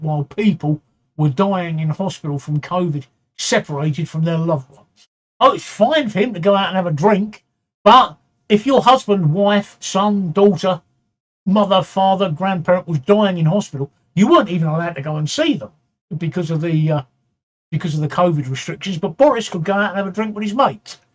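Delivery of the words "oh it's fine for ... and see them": indignant. Real, not acted. Ranting about Partygate hypocrisy.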